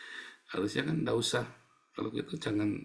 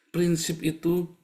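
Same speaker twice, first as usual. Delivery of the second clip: slow emphasis; 7 semitones higher, much slower than usual. Real, not acted.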